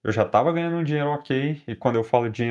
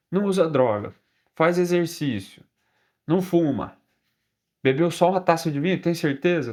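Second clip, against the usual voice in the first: a hint of a higher older-lady voice, doubting; older woman operator; 3 semitones higher than usual. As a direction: lightly mimic a sceptical older woman checking facts. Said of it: "uma voz de uma senhora".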